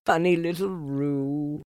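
amused mother kangaroo. A narrator's reading. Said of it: "said Kanga".

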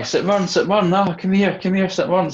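high-pitched mock Irish accent, calling out; strong Irish accent. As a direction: call out in a put-on Irish lilt, pitched well up. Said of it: "this strong Irish accent going".

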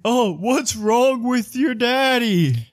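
high, slow, fretting mother; annoying mama voice. Acted. Ubo's mama asking about daddy, high and annoying. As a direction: fret in a silly high falsetto.

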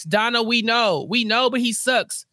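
slow, drawn-out fed-up retort; weary exasperation. Real, not acted. Fan answering Donna, slow and fed up. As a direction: drag it out, tired of her.

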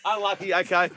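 high, breezy reply; newsroom staffer voice. Acted. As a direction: brush it off like a producer.

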